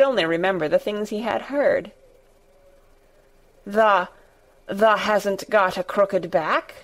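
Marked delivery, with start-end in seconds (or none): 3.7-6.7 slow hoarse faltering Yorkshire voice. Acted. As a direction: rasp it out in disbelief. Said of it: "he said hoarsely".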